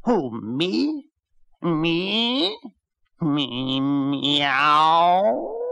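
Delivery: high, unbelieving cat voice; surprised cat. Acted. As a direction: squeak it out in disbelief.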